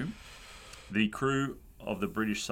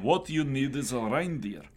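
put-on Russian accent; 4 semitones higher than usual. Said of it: "Maybe avoid the accent".

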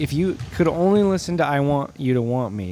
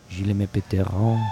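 fake French; 6 semitones lower than usual.

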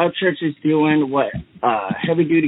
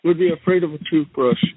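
Donald Trump impression. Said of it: "and I'm the Donnie Trump".

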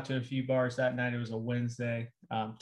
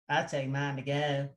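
quoting the Waffle House guy. Retold or imitated. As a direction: quote him the way he sounded. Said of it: "that's a direct quote".

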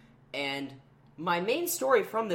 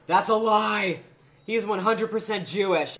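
called across the room; 5 semitones higher, 7 dB louder than usual. Retold or imitated. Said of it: "my friend Karina in the other corner goes".

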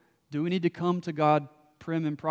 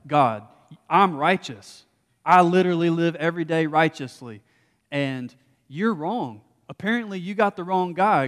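loud, indignant protest to God; voicing a furious Job, louder; Job's angry protest; 3 semitones higher, 5 dB louder than usual. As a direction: shout your innocence at God. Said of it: "Job's like".

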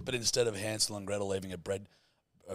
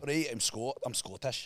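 Scottish accent. Shown as a demonstration. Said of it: "teaching the Scottish accent".

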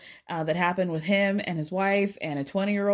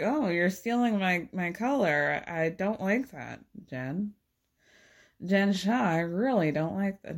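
a not very good celebrity impression, played silly; Meredith Marks; 2 semitones lower than usual. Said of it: "This is not a good impression".

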